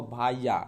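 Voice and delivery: भाइया drawn out as bha-i-ya; village pronunciation. Shown as a demonstration. Teacher demonstrating rural speech with भाइया. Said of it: "भैया को भाइया".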